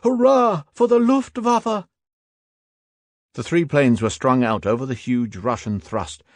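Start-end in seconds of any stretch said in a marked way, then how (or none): 0.0-1.9 high, loud, slow hurrah; shouted cheer. A narrator's reading. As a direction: roar your thanks to the planes. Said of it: "we all shouted".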